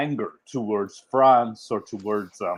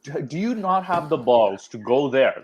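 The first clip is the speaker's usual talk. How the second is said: mildly exasperated, higher-pitched dare; mock challenge; 4 semitones higher than usual. Muslims daring rioters to go abroad, challenging. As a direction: needle them in disbelief.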